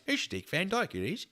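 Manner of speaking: high, mock Cockney accent; Dick Van Dyke. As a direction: put on a hammy chimney-sweep Cockney accent. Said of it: "this is Dick Van Dyke".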